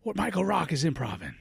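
high, drawn-out wrestler promo; wrestler impression. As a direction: ham it up like a pro wrestler.

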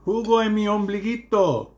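hammed-up nonsense plea; silly senile old man. Husband as senile old man asking for juice in his belly button.

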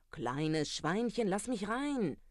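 slow, drawn-out call, rising high at the end; a wolf luring the pig out, calling slowly. Acted. Wolf at the straw house calls to the first pig, slow rising call. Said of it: "Vor dem Strohhaus rief er".

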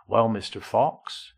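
put-on slow, lightly done West Country accent; a hint of a West Country hedger. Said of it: "in West Country accent".

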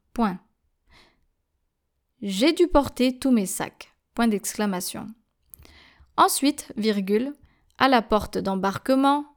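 teacher dictating to French learners, measured and clear; dictation reading. Shown as a demonstration. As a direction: read each phrase out for students to write down, saying the punctuation. Dictation read with punctuation.

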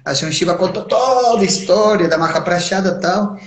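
ordinary delivery

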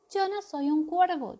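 high and loud squeal; shrieking protest. Acted. Colmillo Feroz squealing that he is no crow. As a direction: shriek the denial. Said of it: "chilló Colmillo Feroz".

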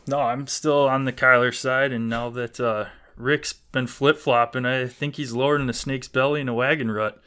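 put-on loud, folksy Wisconsin accent. Podcast guest ribbing the flip-flopping host in a Wisconsin accent. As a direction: lay on the Wisconsin accent with country sayings. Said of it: "That sounded so sweet in your Wisconsin accent".

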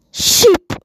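very high, loud squeak of Sheep; censored swear. Retold or imitated. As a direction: squeal Sheep as a fake curse. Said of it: "the other swear word".

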